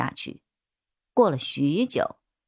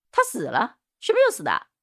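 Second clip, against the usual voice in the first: shocked suspect; 5 semitones higher, faster than usual. A narrator's reading. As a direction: voice shooting up high in astonishment. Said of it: "光头男一脸惊讶". (一脸震惊地尖声追问)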